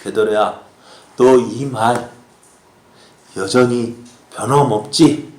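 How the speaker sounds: low, gentle check with Peter; affirming. Acted. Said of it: "베드로의 마음을 인정해 주시기 위한 것입니다".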